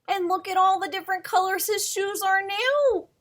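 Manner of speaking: storybook read-aloud for little ones, climbing at the end; reading to children. Acted. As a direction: tell the moral like a children's story. Reads picture book to children.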